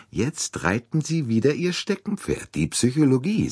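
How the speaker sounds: put-on gentle smiling tease of an old friend's hobby horse; amused teasing. A narrator's reading. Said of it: "sagte Monsieur Bouc lächelnd".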